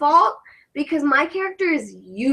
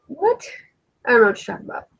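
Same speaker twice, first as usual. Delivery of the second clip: mock innocent; much faster than usual. Denies her accent slips.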